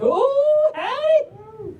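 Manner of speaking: high, whooping Southern holler; Southern drawl. Acted. Reader cheering the pups on, high Southern drawl whoop. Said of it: "but in a Southern drawl".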